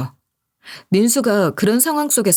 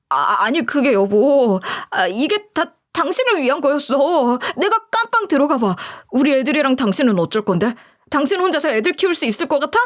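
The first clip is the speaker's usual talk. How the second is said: stammering, then a higher self-justifying plea; flustered excuses; 4 semitones higher than usual. Acted. A guilty husband making excuses to his wife, higher pitched. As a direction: talk your way out of it.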